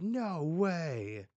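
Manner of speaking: high, loud, stretched protest; hammed-up cry of objection; acted loud refusal. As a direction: refuse outright in a mock yell. Two characters refuse together.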